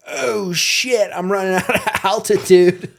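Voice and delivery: mock panic, high and loud, laughing; hammed-up alarm breaking into a laugh; panicking baby bird. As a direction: yelp it like a flyer dropping fast. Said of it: "And then he's like".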